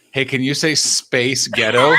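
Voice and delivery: laughing through "Hey, can you say space ghetto?"; laughing quote. Retold or imitated. Pitching a cameo request to cohosts, laughing. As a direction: crack up as you pitch the line. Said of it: "just get him to say".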